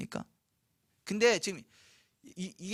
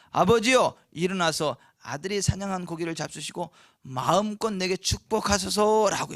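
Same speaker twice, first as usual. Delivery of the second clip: a hint of Esau calling out loud to his father; lightly voiced son asking for a blessing; Esau pleading; 5 dB louder than usual. Esau back from the hunt calls to his father, eager. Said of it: "했어요".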